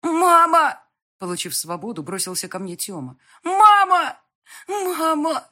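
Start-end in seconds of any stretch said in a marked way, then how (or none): 0.0-0.8 put-on child crying out. A narrator's reading. Child runs to mother. 3.4-5.5 put-on high, loud sobbing child's cry; crying child calls his mother, high and loud; choking on tears. A narrator's reading. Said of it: "захлёбываясь слезами".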